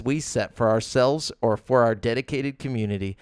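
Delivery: flat robotic reading; deadpan corporate read, no feeling; bored recitation. Shown as a demonstration. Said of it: "when you read it like a robot".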